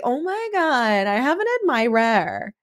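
high, drawn-out swoon; hammed-up imitation of a flattered teen; mock delight. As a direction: gush it slowly as a thrilled girl. Acting Jenny's reaction to the calls.

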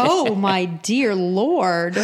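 slow, drawn-out mock shock; appalled reaction. Recalling a dark suicide joke, appalled. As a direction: stretch it out, aghast.

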